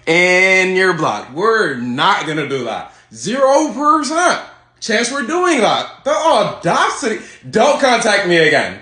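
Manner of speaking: put-on high, slow, sassy Valley Girl dismissal; Valley Girl accent. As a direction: drawl it out, nose in the air. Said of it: "this Valley Girl accent".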